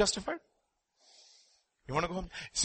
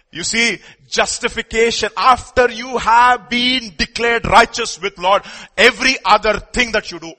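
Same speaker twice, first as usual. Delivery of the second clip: loud preaching; 6 semitones higher, 9 dB louder than usual. Real, not acted. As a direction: press the point home with power. Preacher builds to loud point.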